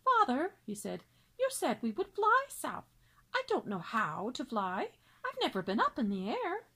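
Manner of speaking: put-on lightly high young swan; young cygnet voice. Cygnet asking his father about flying, lightly high. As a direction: ask it like an eager little brother. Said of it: "One of his brothers spoke up".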